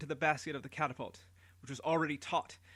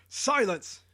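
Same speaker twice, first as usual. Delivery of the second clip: louder, higher bellowing order; shouted command; 7 semitones higher, 8 dB louder than usual. Acted. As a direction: shout him down from the platform. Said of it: "Nimrod shouted down".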